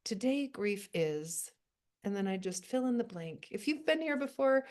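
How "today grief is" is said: slow, deliberate reading of the writing prompt. Shown as a demonstration. To the grief writing group, giving their prompt slowly. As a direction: lay out each word of the prompt slowly. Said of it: "I would write this line".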